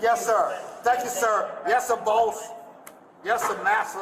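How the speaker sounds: mock servile yes sir boss; sarcastic. Real, not acted. Mocking servile to police.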